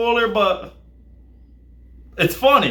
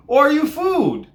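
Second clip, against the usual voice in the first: King Shark voice; 9 semitones higher, 4 dB louder than usual. Retold or imitated. Imitating King Shark's question.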